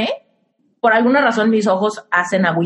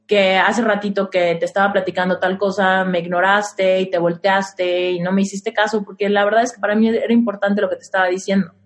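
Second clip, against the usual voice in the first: soft vulnerable plea; 5 semitones lower than usual. Shown as a demonstration. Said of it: "Desde mi energía femenina y con toda transparencia".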